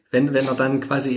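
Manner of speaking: ordinary talk, nothing marked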